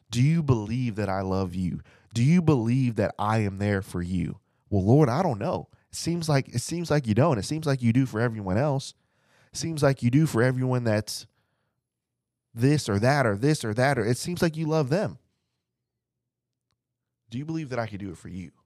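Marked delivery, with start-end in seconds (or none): 4.7-15.2 higher, plaintive hurt complaint to God; doubting believer. Acted. Preacher voicing a struggling believer answering the Lord, hurt and higher. 17.3-18.5 much softer and fast, nearly a murmur; hushed question. Acted. Preacher repeating Jesus' question to the listener, hushed and quick.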